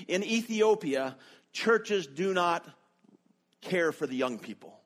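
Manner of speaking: slow, imitated Ethiopian accent. Student explaining his churches to a foreign teacher, in an imitated Ethiopian accent. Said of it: "in his perfect Ethiopian accent".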